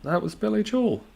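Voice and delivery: high-pitched excited exclamation. Real, not acted. Streamer realises who sang the song, high and excited. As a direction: squeal it out with delight.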